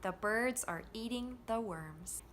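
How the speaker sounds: BIRDS, EATING, WORMS carry the beat, THE and ARE light; rhythm of content words. Shown as a demonstration. Teacher letting learners hear the rhythm, content words stressed. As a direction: lean on BIRDS, EATING, WORMS, glide over the rest. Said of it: "Can you hear the rhythm and intonation changing".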